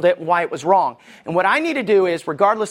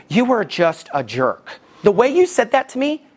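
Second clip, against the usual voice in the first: deliberate, slowed accusation; hurt reproach. Retold or imitated. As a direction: imitate a wife's wounded complaint. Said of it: "that was really rude".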